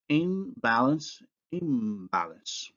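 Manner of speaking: In balance then imbalance with n turning to m; nasal assimilation. Shown as a demonstration. Teacher showing nasal assimilation in imbalance. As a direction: let the n become m before b. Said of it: "the nasal becomes bilabial".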